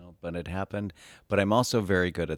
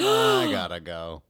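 alarmed exit; 5 dB louder, slower than usual. Retold or imitated. Fleeing a Christ-preaching therapist.

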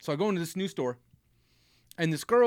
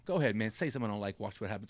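retold whisper; 6 semitones lower, 6 dB quieter, faster than usual. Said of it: "I whisper stuff to him".

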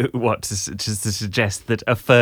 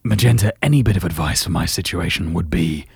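Gerald voice. Acted. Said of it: "just do Gerald again".

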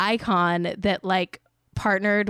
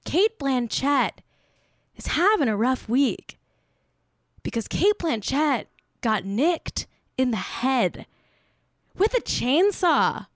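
deliberate repeat; 2 semitones higher than usual. Shown as a demonstration. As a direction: draw out each phrase, pausing between them. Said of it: "Let me just say that one more time".

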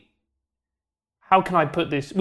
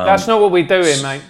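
mock protest; 6 dB louder than usual. Real, not acted. Mock refusing a positive ending.

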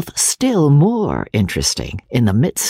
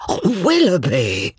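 cried out; 6 semitones higher than usual. A narrator's reading. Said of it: "cried Sir John".

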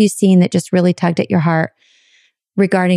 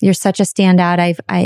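ordinary delivery

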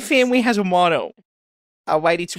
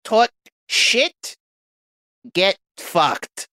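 mock Sicilian accent, understated. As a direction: lean lightly into a Sicilian accent. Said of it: "my authentic Sicilian accent".

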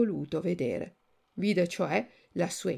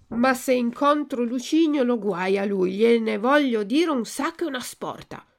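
higher, louder lamenting puppet; repentant Pinocchio; 4 semitones higher, 4 dB louder than usual. Acted. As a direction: regret turning to threat, raised and higher. Pinocchio voiced in story.

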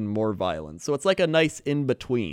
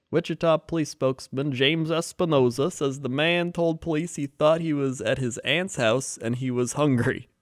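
news read. Acted. Reads news story.

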